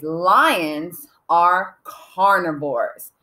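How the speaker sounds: slow, spaced out sentence; slow dictation. Shown as a demonstration. Teacher dictates the sentence to write, slow dictation. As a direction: say each word slowly and deliberately. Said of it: "the first sentence I'm going to write".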